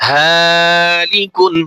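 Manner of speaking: ফাসিকুন said very slowly, the first vowel held one alif long; slow Quranic spelling blend; drawn-out blend. Shown as a demonstration. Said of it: "এক আলিফ টান দিয়ে".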